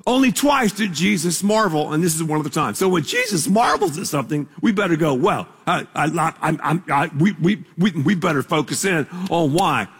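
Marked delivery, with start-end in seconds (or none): 5.1-9.9 mock stammering, lower than usual; flustered stammer. Preacher acting out our reaction to Jesus marveling, flustered. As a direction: stumble over the first words as if caught off guard.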